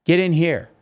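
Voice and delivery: mock urgent call; retold yell. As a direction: call it out like a retold yell, without full force. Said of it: "somebody yells".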